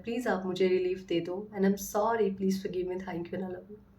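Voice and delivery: tender, softening plea to her own body; tender apology. Retold or imitated. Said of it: "इतने प्यार से, जैसे एक बच्चे से".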